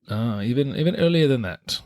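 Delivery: lightly put-on British accent. Host correcting co-host's guess, British accent. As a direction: answer with British vowels. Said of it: "bust out your British accent".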